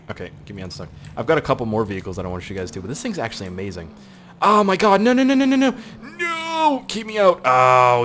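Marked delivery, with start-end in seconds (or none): 4.4-8.0 high, loud frantic cries; panicked yelling. Real, not acted. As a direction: yell in alarm as the truck gets away from you. Truck slipping in the game.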